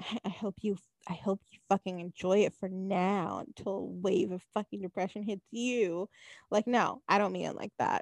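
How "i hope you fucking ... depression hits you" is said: hushed, sinister, ill-wishing menace. Imagining somebody saying a heartfelt well-wish in a sinister way. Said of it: "somebody saying that in a sinister way".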